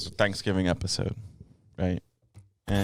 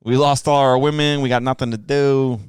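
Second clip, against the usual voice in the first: put-on New York accent; 3 semitones higher, 5 dB louder than usual. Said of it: "giving them, like, a New York".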